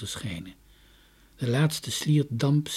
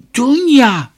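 loud, high call of her name; 13 semitones higher, 15 dB louder than usual. A narrator's reading. Father calls his daughter through the fog, loud high call. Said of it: "hoorden ze hem roepen".

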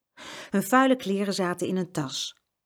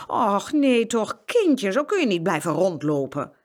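startled farmer's wife; 3 semitones higher, 4 dB louder than usual. Acted. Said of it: "riep de boerin verschrikt".

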